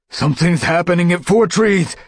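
yowled. A narrator's reading. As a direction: cry out the alarm to the whole patrol. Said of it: "Graystripe yowled".

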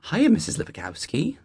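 put-on boy's high, chirpy British accent. Boy greeting the neighbor in his adopted British accent. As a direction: greet her like a little English schoolboy. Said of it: "in a flawless British accent".

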